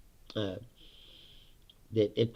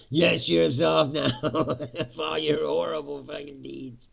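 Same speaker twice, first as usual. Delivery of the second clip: mock priest; slower than usual. Mocking priest's absolution.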